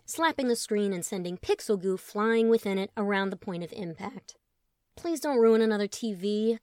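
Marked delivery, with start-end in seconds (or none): 4.9-6.6 louder pleading plea; begging. Acted. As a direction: beg him not to break it. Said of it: "Colin begged".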